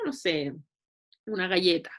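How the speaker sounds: low, unsure patient voice; patient answering. Shown as a demonstration. Nutritionist voicing the patient's shrug, low and unsure.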